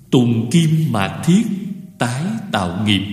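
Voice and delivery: measured, spaced-out verse reading; verse recitation. Real, not acted. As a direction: recite it as scripture, pausing between phrases. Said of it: "tôi sẽ đọc qua bài kệ". (đọc kệ chậm, ngắt nhịp rõ)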